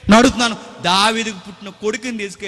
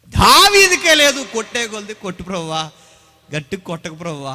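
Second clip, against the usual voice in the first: pleading prayer; 2 semitones higher, 6 dB louder than usual. Retold or imitated. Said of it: "అన్నాడు".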